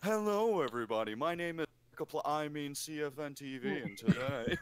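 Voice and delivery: mock sexy baritone; Markiplier. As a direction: put on a suave baritone intro. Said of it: "like, baritone, ... sexy voice".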